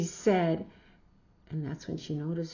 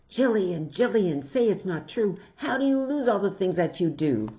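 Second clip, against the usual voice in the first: imitated shout; 3 semitones higher, 8 dB louder, faster than usual. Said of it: "then she'll wake up and shout".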